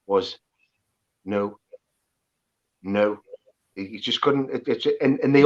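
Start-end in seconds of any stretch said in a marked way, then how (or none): 1.2-3.2 low, isolated "no" without the Geordie glide; uncle's altered "no". Retold or imitated. Imitating an uncle who lost one word, non-Geordie "no". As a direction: say "no" low, as an exile would. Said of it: "apart from one word".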